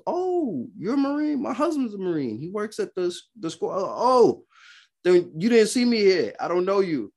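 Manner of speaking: high, breathy-free sing-song wife voice; high girly voice.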